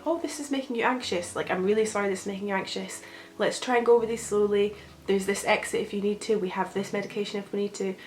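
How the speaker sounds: gentle voice. Acted. Anxious person talking kindly to themselves, gentle voice. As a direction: talk them kindly through it, lightly soothing. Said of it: "bring in that really gentle voice".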